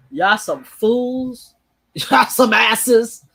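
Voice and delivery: slow, laughing scorn; scornful laughing putdown. Retold or imitated. Telling the Democrats they are fools, slow laughing scorn. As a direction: drag it out, mocking them. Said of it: "was like".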